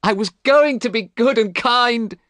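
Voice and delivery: high, loud, slow despairing shout. A narrator's reading. Dorian remembering the cruel portrait, loud despairing shout. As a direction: shout out your lost hope. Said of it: "he shouted".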